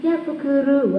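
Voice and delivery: high child's reply, acted; murid senang. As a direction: imitate a pleased pupil answering teacher. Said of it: "Wah, wajahnya seneng ya dia". (suara anak senang, nada tinggi)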